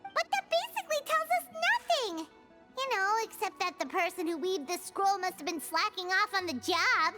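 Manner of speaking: high-pitched, indignant griping; exasperated complaint. Acted. Exasperated complaint about a useless scroll.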